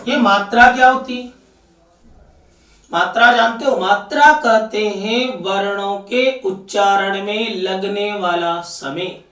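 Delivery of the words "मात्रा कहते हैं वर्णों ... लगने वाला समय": slow definition. Shown as a demonstration. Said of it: "मात्रा की definition क्या है".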